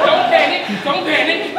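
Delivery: loud, urgent command; alarmed. Acted. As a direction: shout over someone's panic. Trying to stop the other's panic.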